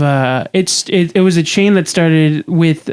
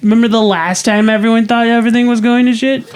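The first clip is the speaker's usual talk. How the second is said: mock ad voice; 4 semitones higher than usual. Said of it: "what I was hearing ... was like".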